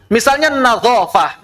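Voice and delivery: "nazofah" with a plain z sound; a teacher mimics the sloppy Arabic teacher's "nazofah"; wrong pronunciation demo. Shown as a demonstration. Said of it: "Jangan nazofah".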